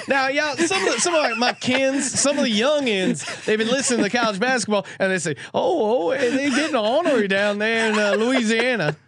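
mock Southern accent, kins and young ins; put-on Southern accent. Host clowning for the listeners in a hammed-up Southern accent. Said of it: "picked up a, uh, Southern accent".

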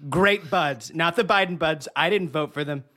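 lightly done Trump voice, boastful and repetitive; a hint of Trump hyping his own product; Trump impression. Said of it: "that was a very impressive Trump".

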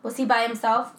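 lightly acted emergency dispatcher; a hint of level, businesslike call-taker; monotone dispatcher. Co-host playing dispatcher to a caller, mildly monotone. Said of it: "I did my best monotone voice".

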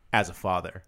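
low, lightly self-important dad; mock-solemn dad pronouncement; fatherly authority. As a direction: lay down the law as a father, pitched low. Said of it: "being a father is saying".

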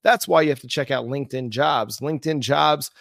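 smooth sponsor read. Acted. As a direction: read it like a radio ad. Host reads sponsor ad.

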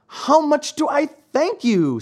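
high-pitched small marionette voice; thankful, tiny high voice; little puppet voice. A narrator's reading. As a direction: speak up high as a grateful puppet.

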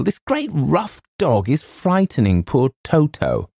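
put-on high, pleading girl's voice; distressed cry. A narrator's reading. Girl complaining of a dog scaring her pet, high distressed cry. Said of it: "cried the girl".

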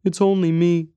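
put-on high, hushed-style child voice; small boy reassuring, pitched high; little boy's whisper. A narrator's reading. Boy reassures stranger in the dark, high child voice. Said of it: "came a little boy's whisper".

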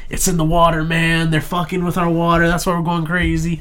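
a hint of a conspiracy nut; paranoid guy. Retelling the comic relief character, lightly voiced paranoid rant. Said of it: "he's like".

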